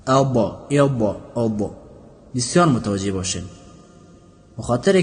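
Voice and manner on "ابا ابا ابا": ابا with an added echo vowel after ض, showing the common mistake; wrong bouncing ض. Shown as a demonstration. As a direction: demonstrate the faulty bounce on ابا.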